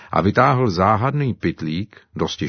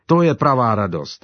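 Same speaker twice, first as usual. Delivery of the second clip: jubilant; 6 semitones higher, 4 dB louder than usual. Acted. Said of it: "jásal Simba".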